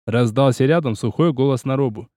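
usual speaking voice

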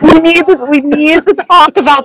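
high, loud and eager; excited. Real, not acted. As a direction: jump in with glee. Eager, laughing announcement.

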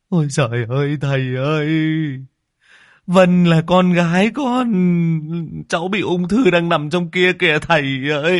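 high, loud sobbing lament; a mother howling in grief; wailing cry. A narrator's reading. Host father wails to the master about his daughter. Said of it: "mếu máo khóc".

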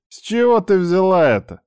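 high-pitched, puzzled comeback; surprised. A narrator's reading. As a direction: question lifted high in disbelief. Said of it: "удивился я".

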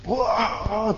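high, held-back imitation scream; half-hearted high yell; mock yell. Teacher imitating a man yelling at night from an itchy scalp, mock yell. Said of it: "dia teriak-teriak ya".

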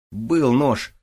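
high, loud shriek of excitement; squealed. A narrator's reading. Sergeevna on seeing the knife, squealing. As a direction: squeal it in disbelief. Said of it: "взвизгнула Сергеевна".

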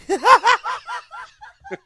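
a loud, high burst of laughter. Real, not acted. Fan laughing at his own retelling of the scene. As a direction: crack up loud.

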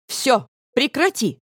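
резко, выше, медленно, с нажимом; сорвись на дочь в раздражении; раздражённый окрик. A narrator's reading. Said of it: "взъелась она". (мать взрывается на плачущую дочь, раздражённо)

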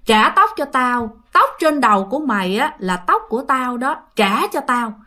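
a hint of a distant, gloomy spirit; eerie ghost voice. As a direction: imitate a haunting demand, stretching the words. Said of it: "giống như là nó vang vang, nó xa xa, nó âm u kỳ lắm".

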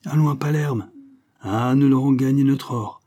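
high, loud, furious outburst; furious bark. Acted. Wackstein barks at Knobbles in a fury, high and loud. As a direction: bark it out in rage. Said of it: "aboya William Wackstein, au comble de la fureur".

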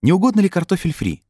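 high, put-on servile waiter voice; obliging waiter. A narrator's reading. Waiter suggests fries to the customer, high and obliging. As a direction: offer it in a high, eager-to-please voice.

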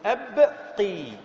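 يبقي said very slowly; slow drawn-out word. Shown as a demonstration. Teacher modelling the present tense, slowly stretching يبقي. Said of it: "المضارع".

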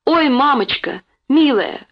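put-on high, stricken child's exclamation; horror-struck. A narrator's reading. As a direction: exclaim as if disaster has struck. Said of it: "с неподдельным ужасом в голосе". (возглас неподдельного ужаса)

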